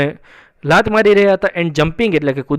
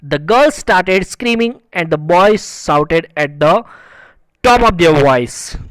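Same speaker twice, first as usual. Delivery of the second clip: slow, measured English reading; story read-aloud; much slower than usual. A narrator's reading. Teacher reading a story sentence to students, slow read-aloud. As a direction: read each phrase out slowly and deliberately.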